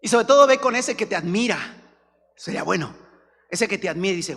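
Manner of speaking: normal talking voice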